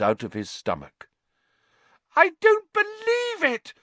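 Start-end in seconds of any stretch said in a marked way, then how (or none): 2.2-3.7 high, loud, disbelieving scream. A narrator's reading. Hermione screams at Lupin in disbelief, high and loud. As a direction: scream it out in shock. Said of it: "Hermione screamed".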